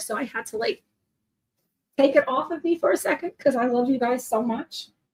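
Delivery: teary, emotional voice, near tears. Showing a coloring page to viewers she loves, tearing up. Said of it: "I am like tearing up over here".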